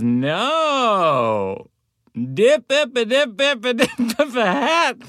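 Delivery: high, fast garbled drawl, barely words; thick Southern accent. Retold or imitated. Rental car clerk calling from thirty feet away, high thick accent. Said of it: "she had a very thick accent".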